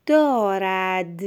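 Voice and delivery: slow, evenly read دارد; measured first reading. Shown as a demonstration. Teacher ends the sample sentence for a pupil, slow and clear.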